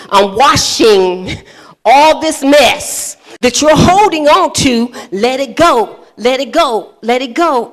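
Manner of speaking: husband's mock prayer, slow and drawn out; mild mock-minister blessing; mock anointing. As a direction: pretend to wash away the mess. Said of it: "he began to do all like this".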